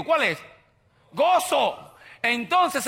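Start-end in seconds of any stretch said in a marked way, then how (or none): 1.1-2.0 joyful answer. Real, not acted. Preacher answering his own question with a joyful call. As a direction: shout the answer like pure joy.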